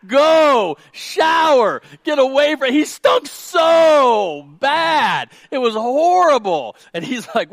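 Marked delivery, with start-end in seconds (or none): 0.0-2.7 loud, high, sputtering yell of disgust; disgusted recoil. Retold or imitated. Father recoiling from his smelly son's hug, loud disgusted yell. 2.7-6.8 slow, loud, high outcry of disgust. Real, not acted. Preacher telling church about son's stench, loud slow disgust.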